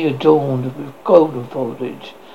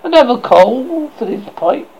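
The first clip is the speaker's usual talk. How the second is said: high sharp tone; 6 semitones higher, 4 dB louder than usual. A narrator's reading. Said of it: "in a high, sharp tone".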